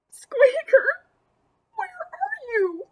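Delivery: high call fading to a slow plea. Acted. Lucy searching for her pet, high calling voice. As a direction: call out then ask slowly.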